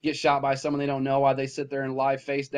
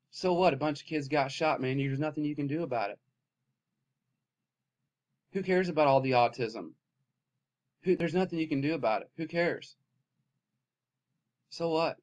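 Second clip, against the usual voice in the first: soft, low, sarcastic shrug; mock indifference; 3 semitones lower, 4 dB quieter than usual. Real, not acted. Vlogger mocking public apathy, soft sarcastic shrug. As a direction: say it like nobody cares, bitterly.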